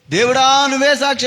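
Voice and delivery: mock plea. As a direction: echo the dying man's words. Recalls the dying man's cry. (తమ్ముడి మొరను అనుకరించడం)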